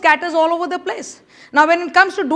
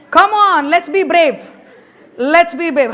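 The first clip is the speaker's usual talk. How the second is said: loud, laughing push to be brave; laughing rally; 5 dB louder, slower than usual. Real, not acted. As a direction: egg the crowd on with a laugh, louder. Urging audience, laughing.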